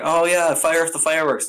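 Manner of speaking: hammed-up cheering crowd voice; mock festival cheer. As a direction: whoop it up like revellers at a festival. Crowd fooled into festival mood.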